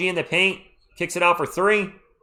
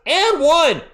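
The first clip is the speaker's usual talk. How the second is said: excited shout; 9 dB louder than usual. Real, not acted. Calling a big and-one.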